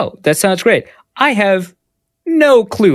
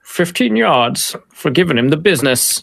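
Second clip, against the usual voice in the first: referee announcement. Retold or imitated. Joining the referee bit.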